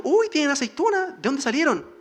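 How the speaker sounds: put-on a four-year-old amazed at the olives; child's surprise. Little girl asking her babysitter about olives, surprised.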